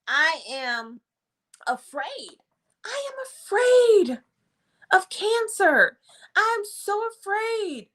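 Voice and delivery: high, whispery frightened client; trembling hushed voice of a frightened patient; acted fear. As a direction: play the scared patient, breath catching. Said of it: "the client is saying".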